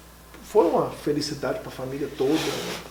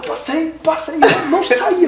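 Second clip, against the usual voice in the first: high, strained, laughing through it; words won't come out; choked up; 10 semitones higher, 5 dB louder, slower than usual. Retold or imitated. Telling the host how he couldn't get the words out.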